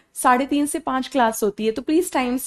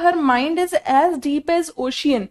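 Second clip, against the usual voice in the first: slow example sentence; much slower than usual. Shown as a demonstration. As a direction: say it once smoothly for the class. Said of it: "लेकिन अगर मैंने कहा". (धीमे, साफ़ उदाहरण वाक्य)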